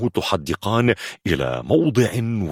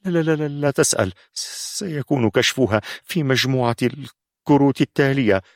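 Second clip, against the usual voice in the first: higher, fast frightened pleading; trembling panic; 5 semitones higher than usual. Acted. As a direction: beg with a hostage's panic. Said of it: "قال بوبي مرتجفا". (توسل مرتجف سريع)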